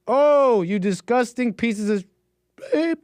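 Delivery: high, straining mock-kid falsetto; failed falsetto. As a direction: reach for falsetto and crack on the attempt. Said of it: "I can't falsetto".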